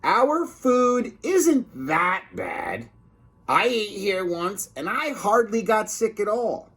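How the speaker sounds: high, slow lightly put-on lunch lady; a hint of a prim, defensive cook. Missus DuPont defending her cooking, high slow voice.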